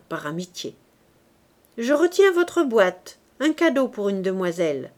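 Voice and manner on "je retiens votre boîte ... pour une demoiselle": a hint of a jovial show-off; lightly voiced Lantier. Lantier teasing Poisson. (Lantier taquine Poisson, voix enjouée)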